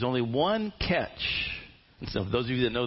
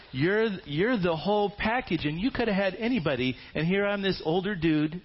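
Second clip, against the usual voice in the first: excited praise; 8 semitones higher than usual. Acted. Boaz praising Ruth excitedly.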